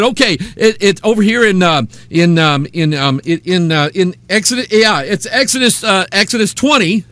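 mock someone groping for a half-remembered reference; imitating fumbled searching. The guy hunting for his proof verse, mock fumbling.

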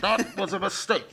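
slow, high Robbie the Robot voice. Shown as a demonstration. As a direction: say it like a clunky robot. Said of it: "in my best Robbie the Robot voice".

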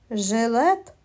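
жилет with a lengthened hard л; drawn-out L. Shown as a demonstration. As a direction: hold the л in жилет. Teacher isolates sound L in word.

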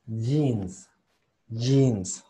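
"Jeans" as "jeenz", starting with a firm J; model pronunciation. Shown as a demonstration. Teacher modelling English for students, "Jeans" pronounced "jeenz". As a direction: say "Jeans" carefully with a clean ee. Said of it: "Así es como se pronuncia".

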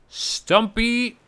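high-pitched call of the name; calling a pet. Real, not acted. Gamer calling his newly named creature, high calling voice.

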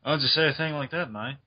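lightly put-on Australian accent. Shown as a demonstration. One friend shows the others an Australian accent, Australian accent. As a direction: try a casual Australian accent. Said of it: "we should do Australian accents right now".

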